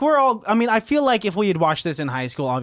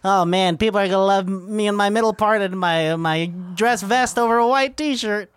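put-on cocky teen; 2 semitones higher than usual. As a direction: brag like a smug high schooler. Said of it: "Coming from this guy in high school".

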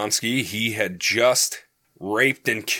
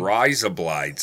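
put-on Australian accent; 4 semitones lower than usual. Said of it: "Is what I'm doing Australia?".

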